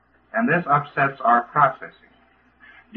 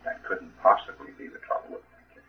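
very calm; 7 semitones lower, 8 dB quieter than usual. Retold or imitated. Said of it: "looks at you very calmly and he says".

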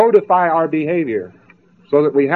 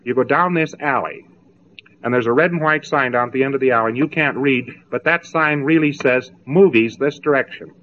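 very gently; 2 semitones lower than usual. Acted. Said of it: "very gently, you say".

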